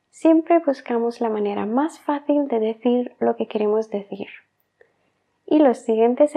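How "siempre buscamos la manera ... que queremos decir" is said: whisper. Real, not acted. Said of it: "no hablamos un inglés perfecto".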